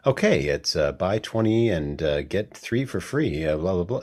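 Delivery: low-key, hesitant ad read; casual microphone read with little pauses, slightly subdued; mock conversational read. Voice actor retells trying a natural, conversational commercial read. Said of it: "trying to sound natural and conversational".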